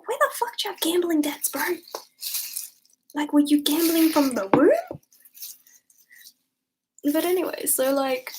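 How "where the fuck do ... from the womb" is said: half-whispered then louder disbelief; incredulous mock rant. Telling her ex's friend, incredulous hushed scoff.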